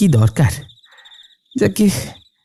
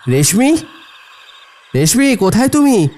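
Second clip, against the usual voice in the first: questioning call through the house; calling her name; 3 semitones higher than usual. Acted. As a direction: call out for someone missing, unsure. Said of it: "রেশমির নাম ধরে বার দুয়েক ডাকল".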